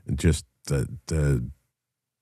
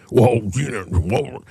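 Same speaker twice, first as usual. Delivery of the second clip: higher-pitched imitation of a flustered arguer; mock sputtering, pitched up; mock floundering; 6 semitones higher, slower than usual. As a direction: mimic someone stuck for an answer. Mimicking the man floundering when cornered.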